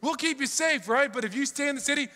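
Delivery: a herald's loud mocking threat. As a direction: jeer at the people over the walls. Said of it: "speaking in the Hebrew language to the people".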